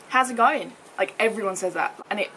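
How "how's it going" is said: poorly attempted Australian accent, pitched higher; bad Australian accent. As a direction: try an Australian accent and miss. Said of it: "I can do a better accent".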